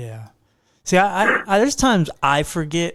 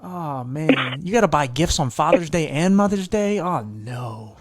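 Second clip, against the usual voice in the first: sarcastic mock pity; slower than usual. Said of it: "that's why I'm so sarcastic".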